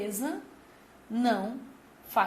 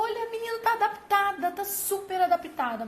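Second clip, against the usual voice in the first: bright, much higher voice, pleased with themselves; cheery school staff; 8 semitones higher than usual. Retold or imitated. Staff telling the parent the girl has adapted, cheery and high. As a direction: sell it like staff proud of a settled girl.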